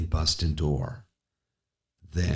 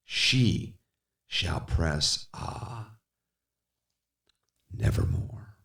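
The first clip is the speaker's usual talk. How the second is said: breathless whisper, barely there; whispered lament; 5 dB quieter, slower than usual. Acted. Speaker mourns Lenore in a whisper. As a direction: breathe it out in grief.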